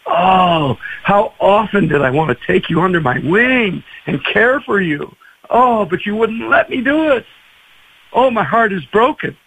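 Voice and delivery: mild, heartfelt lament; understated sorrowful pleading; grieving Jesus. Retold or imitated. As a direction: mourn aloud, with a touch of heartbreak. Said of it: "Jesus, grieving".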